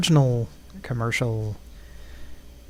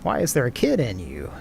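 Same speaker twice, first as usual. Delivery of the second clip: Chris Hansen impression. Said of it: "is what Chris Hansen says".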